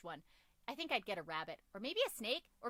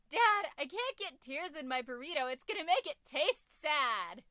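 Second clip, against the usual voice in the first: daughter voice; 6 semitones higher, 8 dB louder than usual. Acted. Daughter voiced teasing dad.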